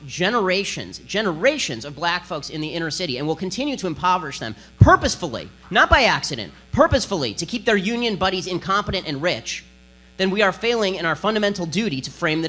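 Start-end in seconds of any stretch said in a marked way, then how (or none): 4.8-7.3 emphatic. Real, not acted. Hammering the key point.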